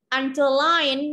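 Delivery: "Underline" with LINE stressed; stress on third syllable. Shown as a demonstration. Teacher showing word stress, "Underline" stressed on LINE. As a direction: lean on the last syllable of "Underline". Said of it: "là rơi vào âm tiết thứ ba là trọng âm".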